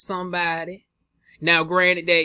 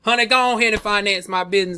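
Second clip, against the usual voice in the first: fast loud repeat; 3 semitones higher, 5 dB louder, faster than usual. Retold or imitated. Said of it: "repeat spoken fast".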